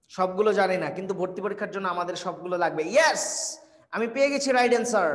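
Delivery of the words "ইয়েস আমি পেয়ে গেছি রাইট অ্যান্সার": excited yes. Real, not acted. Gets the right answer in comments.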